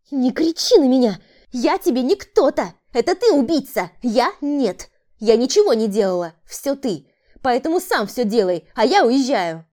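screaming woman. A narrator's reading. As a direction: scream and blame him. (визгливые обвинения)

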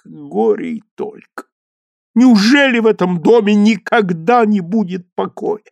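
usual speaking voice

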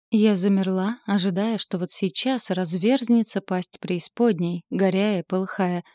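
ordinary delivery, nothing marked

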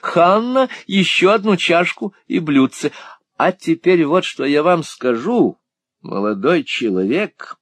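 high, loud, playful scolding as Miss La Creevy; mock-stern little spinster. A narrator's reading. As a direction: wag a finger at the young man in jest. (шутливо-строгая старая дева, высоким голосом)

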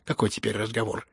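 sharp alarmed question aloud; frightened cry. Acted. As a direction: cry out, startled. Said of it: "испуганно крикнула". (испуганный возглас)

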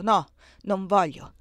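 slow, heavy "no, non voglio" with a hard "no"; menacing refusal. A narrator's reading. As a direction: draw out the "no" like a threat. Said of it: "esclamò con voce minacciosa ed energica". ("no, non voglio" lento, minaccioso ed energico)

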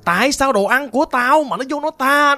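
grind the words out like a hungry spirit; gritted menacing voice. Retold or imitated. A spirit threatens the girl over its food, growling slowly. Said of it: "người ta gằn như vậy đó nha".

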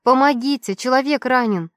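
high, loud yell for help; desperate loud cry for help. Acted. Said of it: "Закричала я громче".

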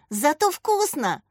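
high, slow, eager exclamation; exclaiming. A narrator's reading. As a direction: insist cheerfully it's tasty. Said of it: "воскликнул Даня".

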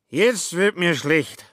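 high, loud and slow bellow. A narrator's reading. Sick Schmitz bellows at Kobler, high and loud. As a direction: roar it out, about to be sick. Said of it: "brüllte Schmitz".

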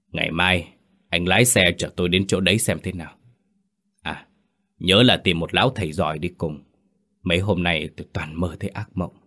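put-on hoarse old man. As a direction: rasp out tired orders. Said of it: "tiếng của lão Hoàng khàn khàn".

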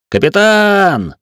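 high, loud, drawn-out cry of Captain; sudden yell. A narrator's reading. Gunner yells to the captain, loud sudden cry. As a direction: bellow it out across the deck. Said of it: "вдруг заорал стрелок".

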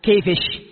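"كيفش" ending in a sh sound; kashkasha pronunciation. Shown as a demonstration. Teacher showing a Yemeni dialect form, "كيفش" with kashkasha sh. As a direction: say "كيفش" with sh on the end. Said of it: "كيفش بدل كيف".

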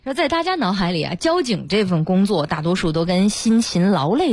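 measured, articulated report narration; radio feature reading. A narrator's reading. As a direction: present it as a prepared human-interest story. Reads out a prepared feature.

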